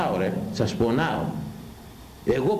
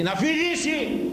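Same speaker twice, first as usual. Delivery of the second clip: mocking high voice; slower than usual. Preacher mocks flirting woman.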